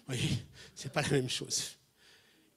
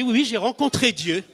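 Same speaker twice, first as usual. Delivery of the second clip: louder, higher, insisting; insistent; 5 semitones higher, 8 dB louder than usual. Retold or imitated. Recruit insisting to the smiling psychiatrist. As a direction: press the point again, firmly. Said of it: "Je dis".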